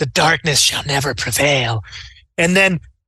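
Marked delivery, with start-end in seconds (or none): 0.0-1.8 hushed whisper. Narrating a fight, speaking as a robed enemy, whispered. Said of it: "He whispers".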